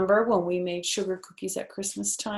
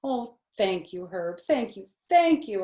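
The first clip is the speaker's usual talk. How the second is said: gushing happily; 3 semitones higher, 5 dB louder than usual. Acted. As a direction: gush with delight over the cookie. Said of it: "I gushed real happy".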